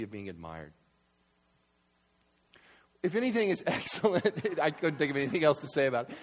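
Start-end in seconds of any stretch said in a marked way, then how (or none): 3.0-4.6 lightly laughing verse reading; amused reading. Real, not acted. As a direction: read the verse through a laugh.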